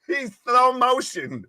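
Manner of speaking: drawn-out slow-motion delivery. Pretend. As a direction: stretch every word out slowly. Mocking slow wrestler entrance.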